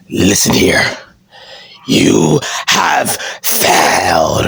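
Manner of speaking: low, very slow boss voice; Vince McMahon. Acted. Disappointed boss to his champion, slow stern impression. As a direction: draw it out with heavy, deliberate menace. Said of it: "And he says".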